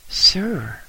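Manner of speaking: high, loud, nervous quaver; a boy's voice shaking with nerves. A narrator's reading. Boy addresses the old lama, voice quavering. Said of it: "I said in a quavering voice".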